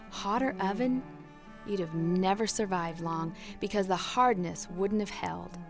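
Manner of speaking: tender master. Acted. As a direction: comfort the teacup gently. Master explains lovingly.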